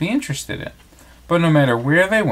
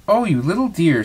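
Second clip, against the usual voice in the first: delighted cry; 5 semitones higher than usual. Acted. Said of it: "Cinderella cried".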